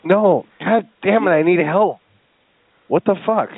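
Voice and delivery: exasperated. Pretend. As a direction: lose patience with someone who won't understand. Caller exasperated at uncomprehending clerk.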